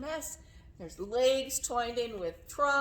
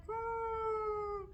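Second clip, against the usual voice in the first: long, soft, high steady hum; giraffe hum; 12 semitones higher, 5 dB quieter than usual. Shown as a demonstration. Teacher showing giraffes humming, soft held hum. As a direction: hold a quiet humming note. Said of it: "hear the giraffes humming".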